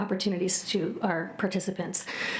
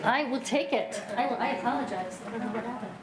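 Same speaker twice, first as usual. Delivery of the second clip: voice gone; 3 semitones higher than usual. Real, not acted. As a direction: push through a lost voice. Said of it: "listen to me like this".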